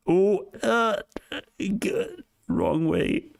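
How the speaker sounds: surprised squeal. Real, not acted. Reacting to Nasdaq chart.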